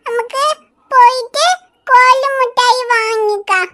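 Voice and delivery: put-on slow, sing-song child voice; proud toddler boasting about candy; eager little boy. Tinku telling Riya his mother promised candy.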